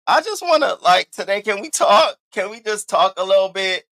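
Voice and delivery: high, pleading call to talk; eager plea. Real, not acted. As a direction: beg the chat to just talk.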